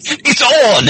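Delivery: high, hammed-up war cry; gleeful imitation of a challenger; mock battle cry. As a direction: pitch it way up, itching for a fight. Acting out Carol's eagerness to fight.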